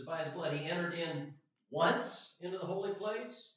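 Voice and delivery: "once" set apart and punched; stress on once. Shown as a demonstration. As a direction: read it out, landing hard on "once". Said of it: "the emphasis of the word once here".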